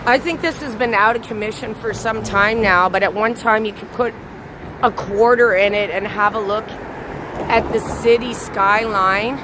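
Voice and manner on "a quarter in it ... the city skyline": normal talking voice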